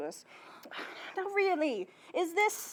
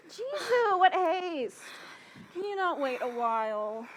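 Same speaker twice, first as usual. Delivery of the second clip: exasperated; 5 semitones higher than usual. Acted. Nurse exasperated, out of breath.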